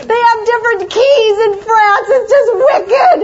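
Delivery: whiny complaint building into a half-laughing teary wail; retold crying meltdown. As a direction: replay the Paris breakdown, rising to a mock sobbing shout. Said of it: "Oh, you should have heard me".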